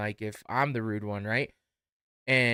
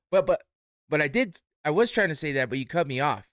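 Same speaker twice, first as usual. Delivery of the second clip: higher and louder, flustered; indignant protest; 4 semitones higher, 6 dB louder than usual. Retold or imitated. Customer defending himself to the cashier, loud indignant sputter.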